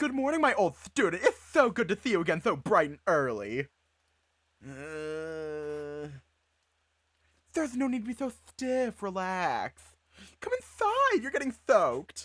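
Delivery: affected camp manner. Voicing the teacher Mister Akagane greeting his old student: put-on gay voice. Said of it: "I'm just gonna go and gay voice".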